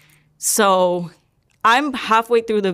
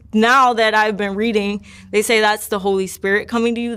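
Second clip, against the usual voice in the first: usual speaking voice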